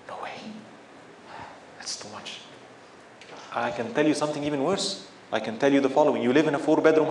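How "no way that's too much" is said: gasp, then a low breathless whisper of disbelief; shocked gasp. Pretend. Imagined believer balking at monthly giving, gasping in hushed shock. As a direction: recoil from the idea in a hushed gasp.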